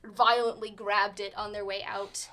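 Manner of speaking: lively scene-setting narration; game master narration. Acted. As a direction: paint the tavern scene for the players.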